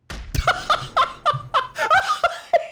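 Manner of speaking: shrieking high giggle; high squeal laugh. Real, not acted. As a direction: burst into a high delighted squeal. Delighted by a stream event.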